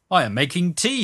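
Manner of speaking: high-pitched, friendly lead-in; wheedling hustler. A narrator's reading. Second hustler leads up to request.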